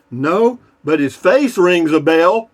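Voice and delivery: punchline hammered home. Acted. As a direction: land the punchline big and slow. Punchline of the Quasimodo joke.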